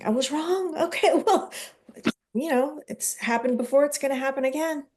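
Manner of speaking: laughing admission. Retold or imitated. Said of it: "a woman shared".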